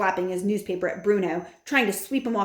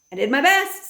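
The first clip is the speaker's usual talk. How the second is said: higher, louder parting shot; grandmother; 8 semitones higher, 7 dB louder than usual. A narrator's reading. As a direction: toss it off with dignity. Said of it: "said my grandmother".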